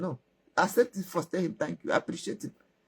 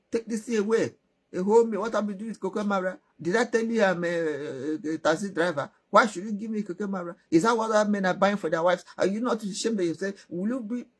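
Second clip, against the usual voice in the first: higher, contemptuous tirade; mock outrage, pitched up; scolding girl; 4 semitones higher than usual. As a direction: tear into him for a cheap gift.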